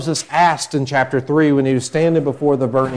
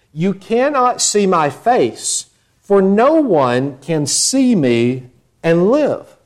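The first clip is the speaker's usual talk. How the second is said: slow solemn God; 5 semitones higher, slower than usual. Acted. God's warning quoted slowly.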